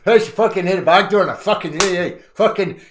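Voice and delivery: loud high mock yelling; mock shouting. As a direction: yell it out, hammed up. Mock shouting foreign chatter.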